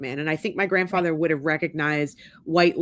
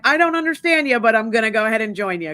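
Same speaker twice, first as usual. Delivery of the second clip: higher and louder, mock earnest old man; grandfather's loving declaration; 5 semitones higher, 4 dB louder than usual. Grandfather telling his granddaughter he loves her, raised and earnest. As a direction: play the gruff grandpa saying he'll join her out of love.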